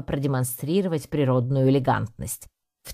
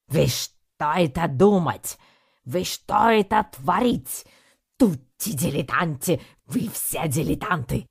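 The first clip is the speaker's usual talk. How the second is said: put-on Italian-accented tirade; 4 semitones higher than usual. Ringmaster Balatelli berates the failed troupe, Italian accent tirade. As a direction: rant in broken Russian like an outraged Italian. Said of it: "закричал он".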